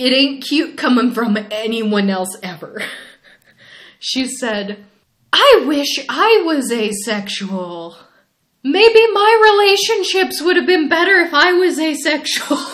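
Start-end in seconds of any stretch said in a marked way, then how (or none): 5.3-12.6 put-on high, loud old grandma voice. Retelling what a drunk grandma said, in a grandma voice. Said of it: "universally recognized as a grandma voice".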